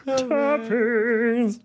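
"Toppings" with a rounded British vowel; British accent. Pretend. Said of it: "talking like this now".

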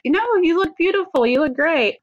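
high, laughing reassurance; laughing husband voice. Retold or imitated. Wife retells husband's reassurance.

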